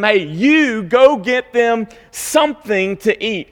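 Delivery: slow firm order, stress on you; same commanding tone. Retold or imitated. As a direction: tell them firmly to go get food. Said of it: "This is the same tone".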